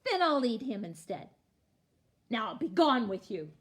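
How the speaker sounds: loud, dismissive troll command; shouting troll. A narrator's reading. Troll waving the middle goat on, loud shout. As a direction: send them off at full volume. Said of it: "he shouted".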